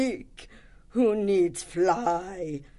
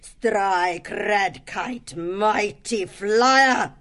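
slow, much higher proud hawk; indignant pride; 14 semitones higher, 5 dB louder, much slower than usual. Acted. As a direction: boast it with wounded pride. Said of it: "looked indignantly".

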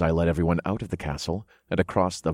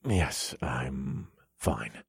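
dizzy; 4 semitones lower, 9 dB quieter, much slower than usual. A narrator's reading. Still dizzy, reassuring worried companions.

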